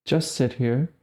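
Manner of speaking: slow, spaced-out meditation cues; guided meditation. Real, not acted. Guiding listeners to just sit, guided meditation voice. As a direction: leave long silences between short, calm instructions.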